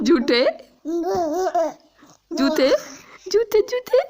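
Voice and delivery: high, loud teasing with laughter; teasing the dog with a laugh, high and loud; laughing tease. Real, not acted. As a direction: laugh and call him a little liar.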